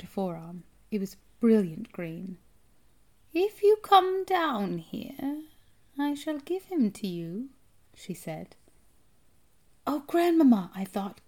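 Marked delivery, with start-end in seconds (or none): 3.3-7.5 high, drawn-out metallic rasp; rasping witch voice. A narrator's reading. Strange woman offering the boy a snake, rasping. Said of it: "rasping quality". 9.8-10.7 high, loud anxious appeal; frightened plea. A narrator's reading. Frightened boy in a tree, pleading for grandmother.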